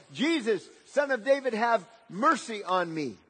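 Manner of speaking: imitating a beggar crying for mercy; desperate cry. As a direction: call out to be noticed by someone passing. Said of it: "he was desperate".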